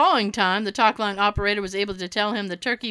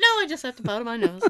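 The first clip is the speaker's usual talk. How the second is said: prissy put-on voice; 3 dB quieter, much faster than usual.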